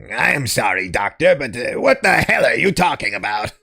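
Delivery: low, dazed zombie voice. Acted.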